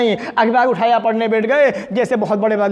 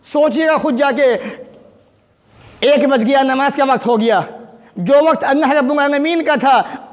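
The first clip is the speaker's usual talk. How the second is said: raised, insistent sermon voice; impassioned preaching; 5 semitones higher than usual. Real, not acted. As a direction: press the admonition on the congregation. (जोश भरी तक़रीर)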